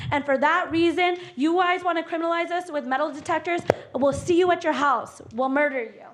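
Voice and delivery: threatening rant. Real, not acted. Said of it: "that was a threat".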